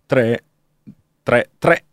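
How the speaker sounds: hiccuping through the numbers; with hiccups. Real, not acted. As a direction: read the digits while catching small hiccups. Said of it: "scusate il singhiozzo".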